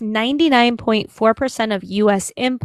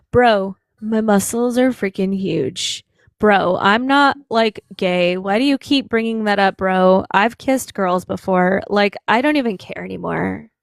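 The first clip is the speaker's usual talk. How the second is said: gym bro; 2 semitones lower than usual. Retold or imitated. Imitating a gym bro caller.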